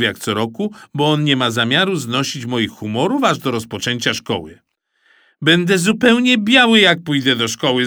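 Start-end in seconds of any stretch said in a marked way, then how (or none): 5.4-7.9 put-on high, loud child's protest; cried out. Mikołaj protests to his dad, high and loud. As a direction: wail it out in protest. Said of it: "zawołałem".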